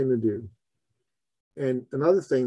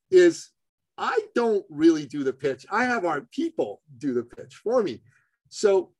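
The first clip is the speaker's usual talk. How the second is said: ordinary talk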